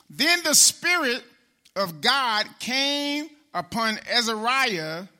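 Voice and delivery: a slow, lifted reading of the verse; slow scripture reading. Acted. Preacher reads scripture slowly to the congregation. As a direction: read the verse out slowly to the church.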